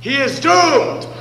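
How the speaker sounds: slow, menacing decree; a hammed-up villain's verdict; ominous vow. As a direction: pronounce doom darkly. Pirate vows revenge.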